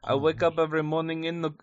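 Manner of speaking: badly faked French accent; shaky grasp of a French accent; attempted French accent. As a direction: try a French accent and half lose it. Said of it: "I cannot do a French accent".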